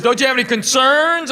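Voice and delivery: high, prim teacher voice; teacher's question. Retold or imitated. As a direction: ask it like a stern teacher. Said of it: "She goes".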